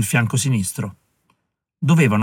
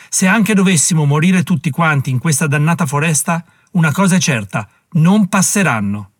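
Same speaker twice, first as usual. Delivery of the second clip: grido; 4 semitones higher than usual. Acted. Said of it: "gridò più forte".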